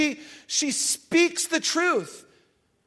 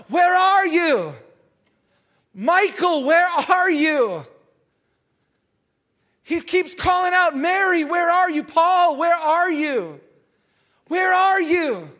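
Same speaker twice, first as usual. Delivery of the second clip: calling out; 2 semitones higher than usual. Acted. God calling out to his children.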